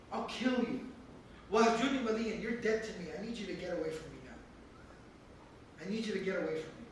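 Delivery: low, hushed, chilling rejection; cold quiet threat. Acted. Father coldly disowning Ibrahim, low and hushed. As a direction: drop the voice to a cold menace.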